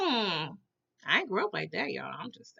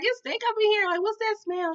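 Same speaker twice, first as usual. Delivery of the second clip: retold complaint; 10 semitones higher than usual. Boy complains about the house smell.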